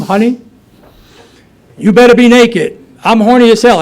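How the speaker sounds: full hammed-up yell on coming home; loud scream. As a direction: bellow it through the house like a drunk husband. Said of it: "I scream".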